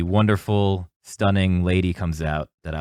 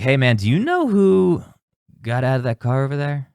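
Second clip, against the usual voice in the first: urgent call; 5 semitones higher, 3 dB louder than usual. Retold or imitated. Stranger urgently calling out.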